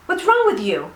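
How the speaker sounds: high-pitched mock indignation; retold pissed-off driver. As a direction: imitate an annoyed stranger scolding. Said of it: "He was pissed".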